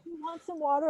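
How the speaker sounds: a hint of a small kid offering help; little girl's voice, only lightly put on. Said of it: "and this little girl".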